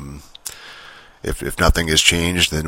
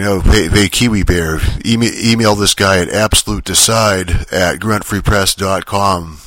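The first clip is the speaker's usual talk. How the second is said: louder, mock on-air holler; retold streamer shout; 2 semitones higher, 4 dB louder than usual. Imitating the streamer relaying an email address to Kiwi Bear, mock yelling. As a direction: imitate a host calling out an announcement. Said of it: "screaming into the mic".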